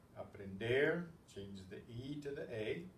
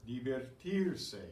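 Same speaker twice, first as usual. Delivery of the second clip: slow careful model; 4 dB louder, slower than usual. Shown as a demonstration. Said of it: "teacher models the verb".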